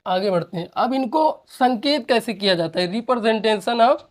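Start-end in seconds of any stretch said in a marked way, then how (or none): 2.9-4.0 very slow, every syllable drawn out; dictating to students at writing pace; slow dictation. Shown as a demonstration. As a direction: spell it out slowly for the class to write. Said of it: "teacher dictating slowly".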